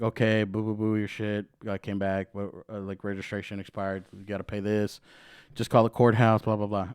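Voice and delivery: low, dismissive run-through of an officer's patter; routine officer spiel. Retold or imitated. Cop telling driver his registration expired, routine drone. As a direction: rattle off the formalities as low filler.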